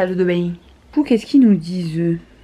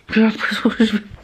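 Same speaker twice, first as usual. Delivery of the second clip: laughing quickly through the line; faster than usual. Real, not acted. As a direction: laugh while saying it. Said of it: "far laugh". (en riant, débit rapide)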